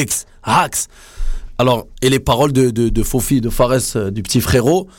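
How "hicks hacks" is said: a real hiccup breaking through. Real, not acted. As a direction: let a hiccup jump out mid-word. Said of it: "ça me fait des petits hicks".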